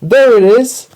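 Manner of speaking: high, loud excited shriek; children's shriek. A narrator's reading. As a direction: shriek it like alarmed schoolchildren. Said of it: "The children shrieked".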